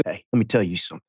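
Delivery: a hint of Kyle's hushed coach talk; Kyle Chandler impression. The speaker imitates Kyle opening a scene, soft low earnest tone. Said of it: "your Kyle just then, that was spot on".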